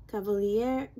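"Cavalier" with an open "-yeh" ending, rising; attempted French name. Shown as a demonstration. Vlogger attempting the perfumer's French name, "Cavalier" ending in an open "eh". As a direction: try "Cavalier" as "ka-va-lee-EH", questioning. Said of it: "don't correct me".

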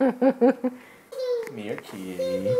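calling a cat. Real, not acted.

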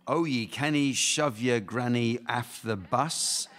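put-on reciting a nursery rhyme in a broad Scottish accent; sing-song Scottish rhyme, slowed down; Scottish accent read slowly; thick Scottish accent. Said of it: "my Scottish accent is too thick".

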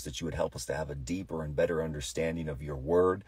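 hushed pastor's prayer; earnest prayer. Acted. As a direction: lay it all before God, gently. Leads prayer.

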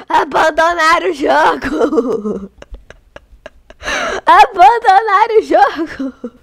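slow, drawn-out laughing wail; laughing lament. Real, not acted. To her viewers, left alone in the game, laughing mock wail. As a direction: stretch it out, laughing in mock despair.

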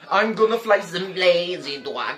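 half-sing it with long held endings; Osama. Acted. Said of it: "good old Papa Osama".

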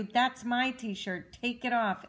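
loud, slow, upset demand; shouting. Acted. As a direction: yell it like a cross child. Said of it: "shouted Caillou".

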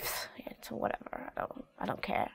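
breathy shrugging whisper, pfft first; dismissive whisper. Shown as a demonstration. Teacher demonstrating a teenager brushing someone off, in a whisper. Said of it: "It's more like".

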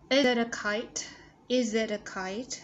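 American flapped t in "it a"; linked flap T. Shown as a demonstration. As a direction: run "it a" together like "ida". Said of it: "Cái nối âm thì đây là T trung âm".

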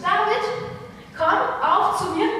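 loud high call across the field; father calling his son David to come. Acted. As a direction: summon your son loudly, like a father. Father calls David to him.

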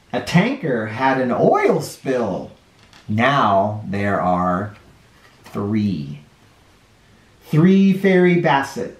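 gentle picture-book read-aloud with dropping countdowns; reading to children. A narrator's reading. Storyteller reading a counting book to children, gentle.

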